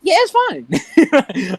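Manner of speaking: very high, drawn-out little voice; milk the sympathy in a slow, high squeak; coy mock bravery. Boy answering girls fussing over his eye, hammed-up coy.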